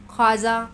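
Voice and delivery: ख्वाजा as 'khaaja', no w sound; silent vav. Shown as a demonstration. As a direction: drop the w after kh in ख्वाजा. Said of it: "वाव को नहीं पढ़ना है". (ख्वाजा में वाव बिना बोले)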